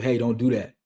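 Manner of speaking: calm, slightly softened correction; calm parent. Acted. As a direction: correct a child without anger. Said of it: "they see how calm you are".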